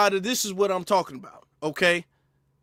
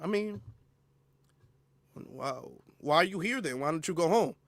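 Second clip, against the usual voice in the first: softer, innocent retort; mock innocent reply; 8 dB quieter than usual. Streamer answering the critics in a soft, innocent tone. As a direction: ask it softly, playing dumb. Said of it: "And we say".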